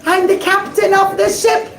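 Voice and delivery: a captain wheedling for a look; pleading captain. Acted. Captain begs the rabbi to see the diamond, pleading. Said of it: "and he says".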